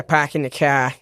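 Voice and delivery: put-on Boston accent with dropped R's. Guest playing along with the host's tease, Boston accent. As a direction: echo it in broad Boston vowels. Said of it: "Did you have an accent".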